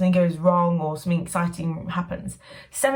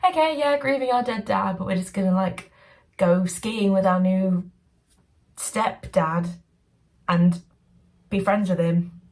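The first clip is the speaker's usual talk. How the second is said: mock cheerful kids.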